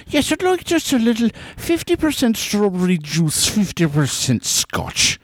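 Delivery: ordering in a put-on voice; O'Brien impression. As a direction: order it in character. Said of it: "that's called an O'Brien".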